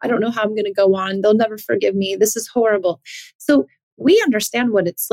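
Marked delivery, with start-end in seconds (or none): 0.0-3.0 mock-distressed parent pitched higher, partly breathy at the start; worried parent pouring out guilt to the coach, mock-anxious; guilty parent. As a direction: imitate an anxious, guilt-ridden parent confessing. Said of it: "parents who will come to me and be like".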